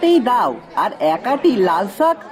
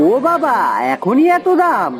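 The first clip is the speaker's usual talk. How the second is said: shocked at the price; 2 semitones higher than usual. Acted. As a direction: pitch jumps up in surprise. (দাম শুনে অবাক)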